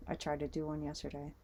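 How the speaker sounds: talking with something in the mouth; words around an object in the mouth; mouth full. Real, not acted. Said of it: "Sorry, I had this in my mouth".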